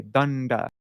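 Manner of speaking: Danda with both syllables drawn out long; elongated long syllables. Shown as a demonstration. Teacher showing how a long syllable is elongated. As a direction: stretch each syllable of Danda. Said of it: "we elongate that when we pronounce it".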